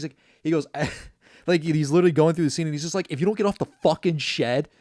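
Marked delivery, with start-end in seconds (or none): 3.1-4.7 louder, rising mock yell at the kids; a dad losing it at kids on a shed; retold dad yelling. Dad yelling at his kids on the shed, mock anger. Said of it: "he's yelling at his kids".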